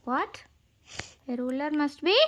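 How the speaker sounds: put-on teacher's rising prompt to the child; prompting question. Shown as a demonstration. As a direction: quiz the listener on the word. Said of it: "prompting listener".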